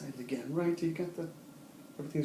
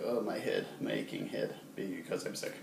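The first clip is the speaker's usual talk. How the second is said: mock aching head; 6 semitones lower, 4 dB quieter than usual. Shown as a demonstration. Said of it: "it's almost like".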